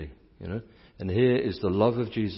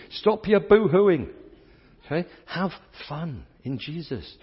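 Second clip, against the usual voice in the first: loud, high and slow mock scolding; playful scold; 8 semitones higher, 3 dB louder than usual. Real, not acted. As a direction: tell them off with a grin. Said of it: "scolding the crowd playfully".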